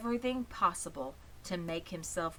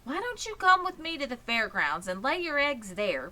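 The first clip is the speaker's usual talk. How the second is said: higher and louder, coaxing; pleading young pig; 6 semitones higher, 4 dB louder than usual. Acted. Wilbur pleading with Charlotte to come along, higher and coaxing. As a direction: plead with her like an eager little pig. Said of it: "pleaded Wilbur".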